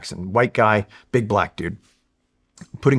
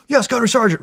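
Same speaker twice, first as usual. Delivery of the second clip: snappy yes sir; 12 semitones higher, faster than usual. Retold or imitated. Snapping to attention for gunny.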